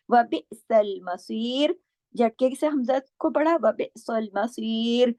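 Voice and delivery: very slow, thick swad and full ya in मसीर; tajweed recitation. Shown as a demonstration. Teacher chanting for students, slow recitation. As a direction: recite बिसल मसीर heavily. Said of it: "स्वाद को मोटा करना है".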